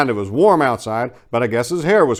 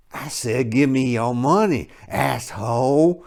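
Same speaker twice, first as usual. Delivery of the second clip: ordering; 3 semitones higher, slower than usual. A narrator's reading. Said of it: "ordered the talkative one".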